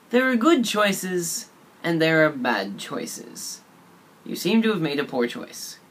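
slow, deliberate mock-stern warning; stern lecture. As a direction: lay down the law slowly, like a disappointed teacher. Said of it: "consisted of the following phrases".

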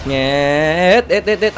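drawn-out squeal, then short repeated bursts; imitated kart noise. Player chasing speed boosts, mimicked kart sounds.

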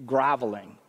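low, growly murmur under the voice; low-toned grumble. Shown as a demonstration. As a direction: drop it very low and soft. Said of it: "It's this low tone sort of".

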